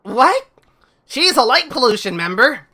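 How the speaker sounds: high, loud, acted disbelief; shocked outrage. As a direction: exclaim it as a stunned game character. Character reacts to revelation.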